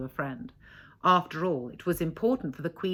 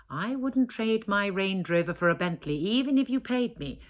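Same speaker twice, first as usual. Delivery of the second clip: haughty; 3 semitones higher than usual. Acted. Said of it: "she said, lifting her chin".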